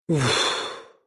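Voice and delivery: ouf soufflé doucement, soulagé; lâcher la tension dans un souffle; soupir de soulagement. A narrator's reading. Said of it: "soupire Jackie". (Jackie soupire de soulagement, doucement)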